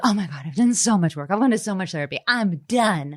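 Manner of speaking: retold gush of relief, lifting towards the end; hugely relieved. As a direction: act out being thrilled it's all behind you. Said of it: "I was so relieved".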